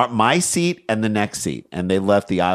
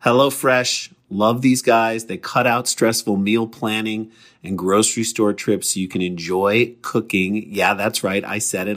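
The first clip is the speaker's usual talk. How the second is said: conversational sponsor read, slightly measured; podcast ad read; 4 semitones lower than usual. Acted. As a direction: sell it casually, spelling out the offer. Reads a sponsor ad.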